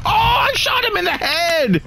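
high startled outburst; surprised shout. Real, not acted. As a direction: blurt it out in disbelief.

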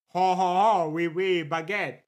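stereotyped French chuckle and catchphrase; mock French. Shown as a demonstration. Streamer demonstrates the chat sound clip, in mock-French caricature. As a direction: put on a caricature French laugh. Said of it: "Like the".

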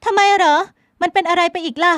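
high, loud, dismissive questions; an irritated woman mocking talk about his fish; curt young woman. A narrator's reading. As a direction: brush him off with scorn. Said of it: "เธอถามน้ำเสียงสะบัด".

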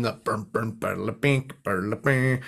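bass line imitation. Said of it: "one of my favorite bass lines".

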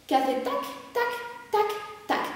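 soft, clipped tac tac marking the hip accent; counting the hip hits like a metronome; clicking rhythm sounds. Shown as a demonstration. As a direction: tap out the beat with your voice, quietly. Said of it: "Un cuenco puesto al revés".

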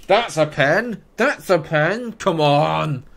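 loud, high appeal for a penalty; insistent protest. Real, not acted. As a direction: shout the claim in disbelief.

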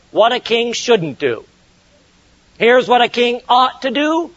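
ordinary delivery

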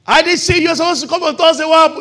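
loud, high telling-off; scolding coach. Retold or imitated. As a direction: call him out for missing practice. Coach scolding absent player.

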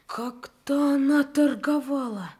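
urgent demand. Acted. Sick boy jumps up, demanding.

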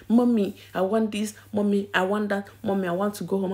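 mock the little boy pestering mummy; imitating her whining son. Son nagging mother in church.

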